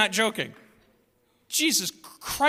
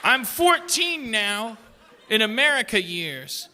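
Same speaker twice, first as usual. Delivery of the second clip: put-on proud teenager. Teen America speaking.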